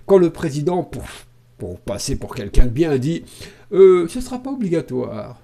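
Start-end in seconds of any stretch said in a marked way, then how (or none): 4.1-5.4 mock small, meek little voice. Imitating the president promising no obligation, in a small voice. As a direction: put on a little reassuring voice. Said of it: "avec sa petite voix".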